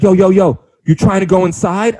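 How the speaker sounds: lightly mock a rich kid playing tough; mock gangster rapper. Imitating a rich kid at a party, mock gangster. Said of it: "People talk like that".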